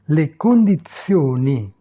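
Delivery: "le condizioni" said distinctly, long stressed o; Italian pronunciation demo. Shown as a demonstration. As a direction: model "le condizioni" for learners. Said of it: "prononcer les mots". (prononcer « le condizioni » distinctement à l'italienne)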